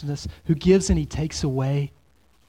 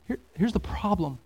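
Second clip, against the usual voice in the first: whispered warning; 6 dB quieter than usual. Real, not acted. Pastor leans in to the congregation with a whisper. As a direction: drop to a whisper, leaning in.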